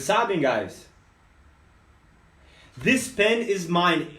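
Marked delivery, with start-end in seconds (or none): 2.8-4.1 slow teaching demo. Shown as a demonstration. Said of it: "O objeto vem primeiro".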